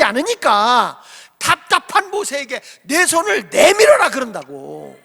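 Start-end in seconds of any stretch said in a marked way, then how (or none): 2.8-4.1 God's command. Retold or imitated. God voiced to Moses.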